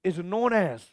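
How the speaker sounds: slow, word by word dictation with long pauses; teacher dictating a definition; dictation pace. Shown as a demonstration. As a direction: dictate it for notes. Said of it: "dictating a definition slowly".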